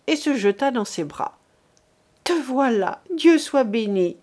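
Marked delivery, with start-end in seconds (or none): 2.2-4.2 relieved cry. Acted. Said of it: "s'écria-t-elle".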